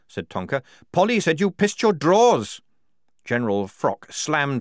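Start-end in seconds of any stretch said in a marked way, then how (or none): 0.9-2.6 loud, high taunt; jeering accusation. Acted. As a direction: taunt at full voice. Tonker taunts Strappy.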